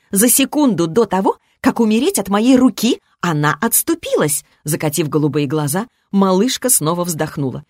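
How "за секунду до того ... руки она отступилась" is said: put-on higher-pitched childish complaint; complaining. A narrator's reading. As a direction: lament it with pitch lifted. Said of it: "пожаловалась древняя".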